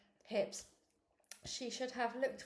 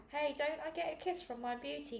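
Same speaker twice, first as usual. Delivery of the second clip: loud call; 6 semitones higher than usual. A narrator's reading. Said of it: "Dad called loudly".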